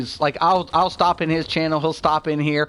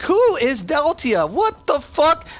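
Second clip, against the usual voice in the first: retold disbelief; 12 semitones higher, slower than usual. Retold disbelief at unknown name.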